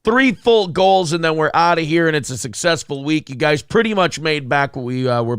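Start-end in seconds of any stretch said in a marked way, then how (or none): 0.0-3.3 muffled behind a hand; hand over mouth. Real, not acted. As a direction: speak with a hand covering the mouth. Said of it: "have my hand over my mouth".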